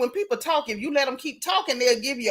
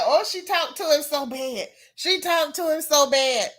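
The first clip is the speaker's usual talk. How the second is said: mimicking gossipers; 3 semitones higher than usual. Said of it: "people kept saying".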